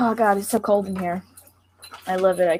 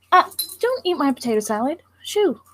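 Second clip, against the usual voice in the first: high-pitched scolding of a cat; shooing a pet; 5 semitones higher than usual. Real, not acted. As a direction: shoo the cat away from your food, pitch jumping up. Shooing the cat off her food.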